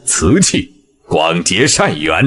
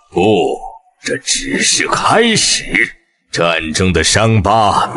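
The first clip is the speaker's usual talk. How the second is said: movie villain; 2 semitones higher than usual. Acted. Villain vows to shatter peace.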